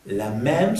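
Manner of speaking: "même" with open eh; French "même" as mehm. Shown as a demonstration. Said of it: "sonido E abierto".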